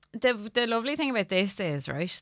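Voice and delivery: lightly put-on Wexford accent. Shown as a demonstration. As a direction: talk in a rambling Wexford lilt. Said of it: "it is in a Wexford accent".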